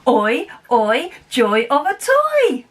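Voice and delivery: brighter, bigger caption chant with a lift on toy; excited. Shown as a demonstration. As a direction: chant it like you just got a brand new toy. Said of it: "put that happy and excited face".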